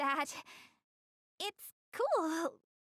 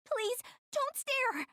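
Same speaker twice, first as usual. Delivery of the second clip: higher, slow and pleading; begging not to be watched; flustered, drawn-out plea; embarrassed plea; 8 semitones higher, 4 dB louder, slower than usual. Acted. Embarrassed after falling.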